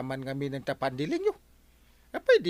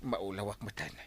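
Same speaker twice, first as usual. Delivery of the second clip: embarrassed groan; 3 semitones lower, 10 dB quieter, faster than usual. Acted. Flustered embarrassment.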